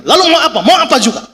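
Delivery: high-pitched, combative comeback; defiant challenge. Retold or imitated. Two motorists squaring up in a quarrel, high defiant challenge. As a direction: throw the challenge right back. Acted roadside quarrel with rider.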